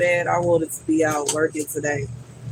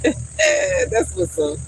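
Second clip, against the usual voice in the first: squealing thanks; much slower than usual. Real, not acted. Thanking new subscriber, gushing.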